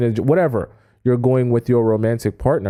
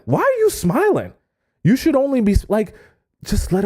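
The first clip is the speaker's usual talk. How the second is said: much higher, exasperated "Why are you smiling"; escalated mock outrage; shriller mock jealousy; 9 semitones higher than usual. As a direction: pitch it up in jealous disbelief. Jealous boyfriend watching her chat.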